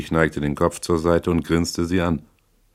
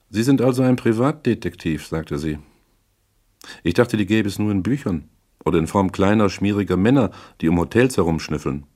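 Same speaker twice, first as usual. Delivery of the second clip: a lightly higher-pitched woman character; lightly voiced cool client; 4 semitones higher than usual. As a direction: sound out the detective with a hint of disdain. Voices Misses Regan in narration.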